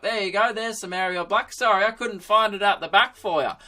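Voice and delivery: put-on old-timer back from the stockroom; old dude. Laptop back with the font, old dude voice. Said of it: "like, some old dude taking notes".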